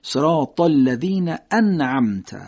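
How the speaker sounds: صراط الذین انعمت slowly, clear stop on انعمت; correct hamza. Shown as a demonstration. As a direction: model reading with a firm hamza. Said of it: "نباید اینطوری باشه".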